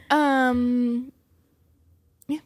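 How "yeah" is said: whispered, half under breath. Real, not acted. Skeptical whisper aside.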